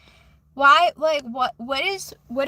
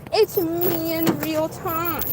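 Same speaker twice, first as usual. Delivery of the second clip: slow, deliberate; slower than usual. Shown as a demonstration. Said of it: "And I'm gonna say".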